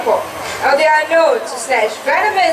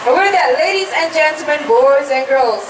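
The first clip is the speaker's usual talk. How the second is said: put-on overbright kids party host. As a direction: pump up the kids. Host hypes up the audience.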